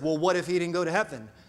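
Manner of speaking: mock dry, a little sarcastic tone. Telling a joke, voicing the guy's reply to her, mock-sarcastic. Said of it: "with a little sarcasm, he says".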